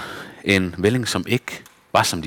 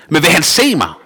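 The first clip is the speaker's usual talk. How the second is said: calling out; 7 semitones higher, 4 dB louder than usual. A narrator's reading. Little wooden boy calls after Luisa. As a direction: call after her, louder and higher. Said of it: "råbte Puccello".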